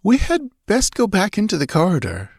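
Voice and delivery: put-on a nervous girl's voice pitched far up. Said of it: "Natala ventured nervously".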